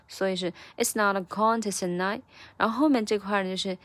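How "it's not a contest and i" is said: "contest" with a stressed, lengthened first syllable; linked phrase peaking on the "con" of "contest". Shown as a demonstration. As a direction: stretch CON in "contest", then link into "and I". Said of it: "这个con要重读出来".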